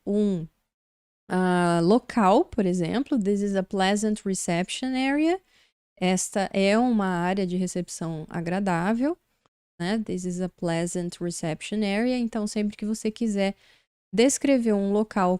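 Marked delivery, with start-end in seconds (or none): 3.2-5.4 teacher reading the English example. Shown as a demonstration. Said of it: "For example". 10.0-12.2 teacher reading the English example. Shown as a demonstration. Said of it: "For example".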